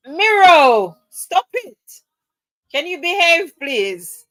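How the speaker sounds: high, loud mock telling-off; mock scolding. Real, not acted. To Miro in chat, high mock scolding. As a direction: scold him in fun, voice up high.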